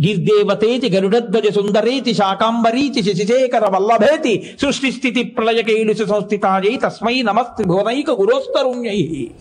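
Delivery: measured chant of a Sanskrit verse; shloka recitation. Acted. Preacher reciting a hymn to the listeners, steady chant.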